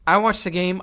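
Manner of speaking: mock consolation. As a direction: talk yourself into being fine. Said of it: "I'm like".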